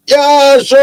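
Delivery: mock a local's Black Country drawl, high and loud; Black Country accent. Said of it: "That's gotta be the worst Black Country accent I've heard".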